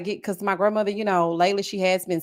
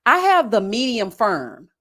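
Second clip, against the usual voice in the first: slow; 3 dB louder, slower than usual. Real, not acted. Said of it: "Can you tell us which".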